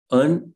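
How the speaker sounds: "understand" broken into syllables, weight on the end; demonstrating "understand" with its final syllable stressed; stress on last syllable. Shown as a demonstration. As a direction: say "understand" in separate beats, landing on "stand". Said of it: "you are stressing the last syllable".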